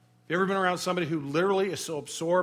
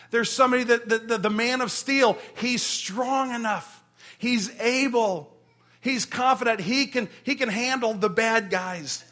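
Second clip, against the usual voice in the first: higher and louder, slow admiration; exalting; 5 semitones higher, 3 dB louder than usual. Acted. Praising the rescuing hero to the congregation, rising. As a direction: build him up as unbeatable. Extolling the hero's strength.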